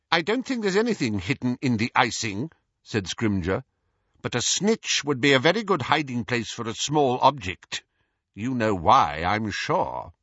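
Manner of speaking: lightly voiced official interrogator; Scrimgeour questioning. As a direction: reason it out with measured suspicion. Scrimgeour answers Hermione.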